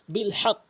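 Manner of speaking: বিল হক joined, ending on a stopped q; pronunciation demo. Shown as a demonstration. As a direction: join বিল to হক and stop firmly on the final consonant. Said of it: "এভাবে উচ্চারণ করবেন".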